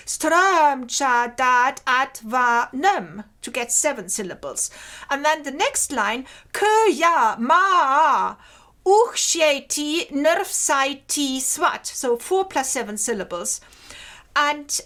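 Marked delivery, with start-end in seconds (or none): 0.1-3.3 "Strömcha" slow, split into three syllables; three-syllable reading. Shown as a demonstration. Lecturer shows students how to count syllables, slow syllabified reading. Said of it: "read with three syllables". 6.5-11.9 "ma" slow and louder, stretched to two syllables, maa; disyllabic reading. Shown as a demonstration. Lecturer demonstrates the seven-syllable line, slow emphatic "ma". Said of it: "which I read disyllabic".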